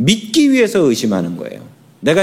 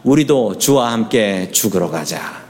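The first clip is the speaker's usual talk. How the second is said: congregation recitation; 6 semitones lower than usual. Shown as a demonstration. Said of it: "시작".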